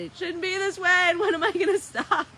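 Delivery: high, loud exasperated whine; mock whining protest. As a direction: whine in resistance to your own feelings. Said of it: "don't try to say".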